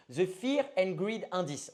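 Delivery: slow English with a French accent. Real, not acted. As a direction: spell out the English name slowly in a French accent. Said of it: "désolé pour mon accent".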